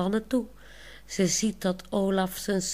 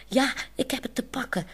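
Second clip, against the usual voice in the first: calling out; 6 semitones higher, faster than usual. Acted. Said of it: "roept Monique".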